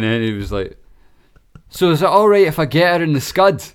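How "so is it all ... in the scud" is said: higher, louder mock caller asking permission; prank caller impression. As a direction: put on a loud, cheeky prank-call voice. Voicing a prank caller asking dad.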